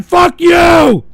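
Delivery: loud drawn-out yell; furious insult. Real, not acted. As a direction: hurl it at them. Blames Vox Artificials.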